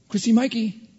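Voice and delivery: high, loud call of a mom; mother calling. Retold or imitated. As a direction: call the kids' names across the yard. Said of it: "And then I hear".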